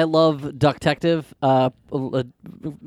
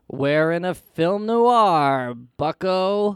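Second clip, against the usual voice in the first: clueless noir impression; 3 semitones higher, much slower than usual. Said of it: "the people on cast were like".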